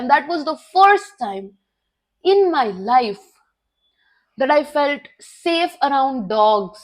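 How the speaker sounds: very slow, weighty English lines; slow solemn reflection. Real, not acted. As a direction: let each phrase sink in slowly. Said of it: "slow solemn English reflection". (धीमी, गंभीर आवाज़ में सोच)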